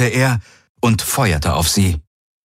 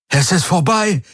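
high, exclaimed announcement; high-pitched victorious call; 11 semitones higher than usual. A narrator's reading. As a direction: cry it out to everyone. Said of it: "rief er".

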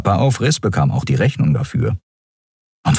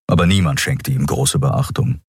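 ordinary delivery, nothing marked

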